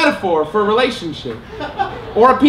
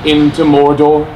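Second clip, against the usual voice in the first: slow, loud grave declaration; movie quote; 5 semitones lower, 5 dB louder, slower than usual. Retold or imitated. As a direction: intone it like a solemn warning. Famous movie line quoted.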